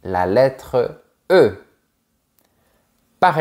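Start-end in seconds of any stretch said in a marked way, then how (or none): 0.0-1.6 slowed explanation. Shown as a demonstration. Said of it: "Commençons par la lettre finale".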